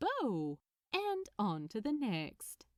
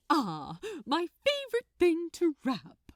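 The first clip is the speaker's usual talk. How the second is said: sweet smile; 7 semitones higher, 7 dB louder than usual. A narrator's reading. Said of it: "he responded with a sweet smile".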